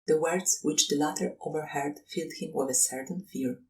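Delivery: ordinary delivery, nothing marked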